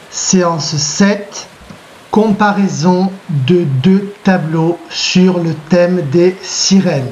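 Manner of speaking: slow, clear dictation pace for note-taking; teacher dictating a title to pupils, slow and clear. Shown as a demonstration. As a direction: spell it out slowly so they can write it down. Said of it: "Vous allez donc marquer séance sept".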